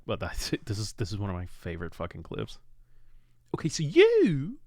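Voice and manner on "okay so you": high, airy whispered mimicry; imitating the actor's impression. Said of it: "he did so good".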